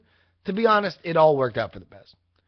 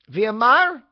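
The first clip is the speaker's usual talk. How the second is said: put-on higher, louder Hispanic accent, rising at the end; her Hispanic-accented voice; 7 semitones higher, 7 dB louder than usual. Imitating the phone woman naming the driver, Hispanic accent. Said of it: "say it in her voice".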